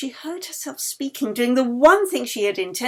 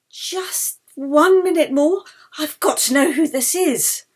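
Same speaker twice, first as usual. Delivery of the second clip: louder, higher, urgent begging; pleading; 6 semitones higher, 6 dB louder than usual. Acted. Yeli pleading with Anna to keep going, louder and higher. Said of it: "Yeli pleaded".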